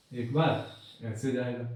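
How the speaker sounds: slow, drawn out to trace the wave; slow demo. Shown as a demonstration. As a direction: stretch एक बार ऐसे जाएगा out slowly as if drawing it. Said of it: "मतलब एक बार ऐसे जाएगा".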